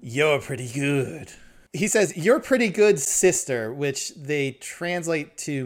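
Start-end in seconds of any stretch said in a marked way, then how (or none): 0.0-1.3 put-on slow drawling old-timer voice; lightly voiced old prospector. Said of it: "they've decided that he's gonna talk like this". 2.2-3.7 put-on high, loud old prospector voice; a hint of a grizzled old-timer. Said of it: "like, an old prospector thing".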